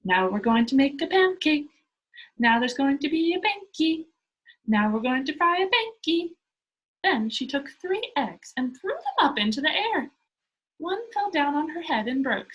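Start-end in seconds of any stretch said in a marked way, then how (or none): 0.0-6.3 loud, eager announcement; excited child crying out in the kitchen; cried. Acted. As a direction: call out the pancake plan with glee. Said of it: "and Pippi cried".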